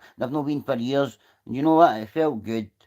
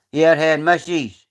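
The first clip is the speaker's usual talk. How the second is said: calling out; 3 semitones higher, 6 dB louder, slower than usual. Retold or imitated. Calling after old woman.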